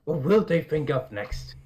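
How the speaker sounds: sarcastic amazement. Pretend.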